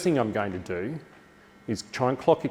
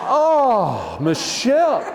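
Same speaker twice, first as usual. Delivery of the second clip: much higher, louder, thrilled cry; Christmas morning delight; 12 semitones higher, 6 dB louder, much slower than usual. Shown as a demonstration. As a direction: gush like it's Christmas morning. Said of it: "like it's Christmas morning".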